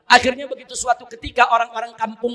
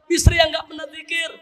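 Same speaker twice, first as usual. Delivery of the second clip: higher, half-shouted tearful plea; crying repentance; 5 semitones higher than usual. Acted. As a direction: weep out the confession to God. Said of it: "Begitu bangun dia nangis".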